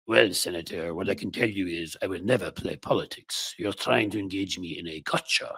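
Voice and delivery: a lightly put-on obnoxious Pam Bondi, barely changed; mildly snotty mock witness voice. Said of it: "do an obnoxious voice of any sort".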